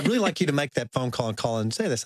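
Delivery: ordinary delivery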